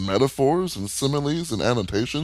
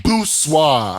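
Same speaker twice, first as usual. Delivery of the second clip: sultry perfume ad; 4 semitones higher, 5 dB louder than usual. Pretend. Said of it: "sound like a drag queen".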